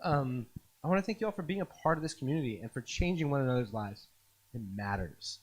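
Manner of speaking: quiet, choked with emotion. Real, not acted. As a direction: hold back tears softly.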